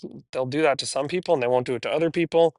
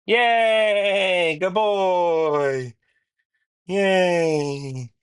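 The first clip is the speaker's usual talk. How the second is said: cheering; 5 semitones higher, much slower than usual. Real, not acted. Trainer cheering the puppy into the crate, high and happy. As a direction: celebrate the puppy going in.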